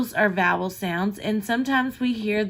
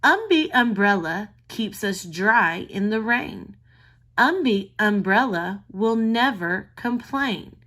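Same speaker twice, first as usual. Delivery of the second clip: put-on reading to a toddler. Shown as a demonstration. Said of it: "Listen to the poem".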